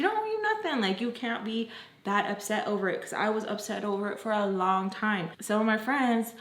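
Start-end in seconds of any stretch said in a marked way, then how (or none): 0.0-3.0 dismissive friend. Retold or imitated. Friends brushing off her being upset, dismissive.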